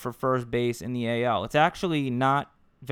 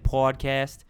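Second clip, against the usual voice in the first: Boston accent. Shown as a demonstration. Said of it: "go into the Boston accent".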